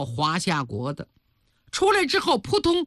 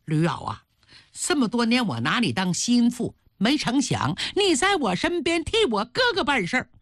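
betrayed mistress, indignation rising in pitch; glaring reproach; 4 semitones higher, faster than usual. Acted. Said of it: "常仪双眼一瞪".

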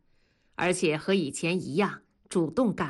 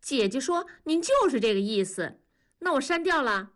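put-on child replying; 6 semitones higher than usual. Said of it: "南方说".

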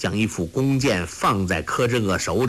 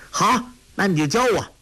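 overjoyed; 9 semitones higher than usual. A narrator's reading. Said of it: "托雷大喜".

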